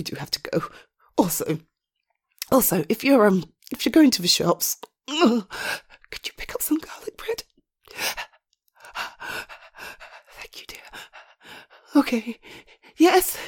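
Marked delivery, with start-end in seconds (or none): 0.0-0.6 whispering. Acted. Hushed on phone. 5.1-10.8 slow hushed whisper. Acted. Hushed on phone.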